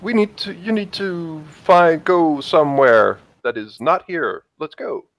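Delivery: urgent, falling at the ends; urging him away. Acted. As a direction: start high and press him to go. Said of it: "reason for her to say".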